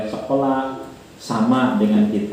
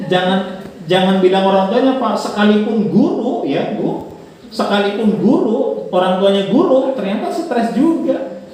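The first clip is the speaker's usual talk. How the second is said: laughing tease; 8 semitones higher than usual. Real, not acted. Laughing teasing teachers.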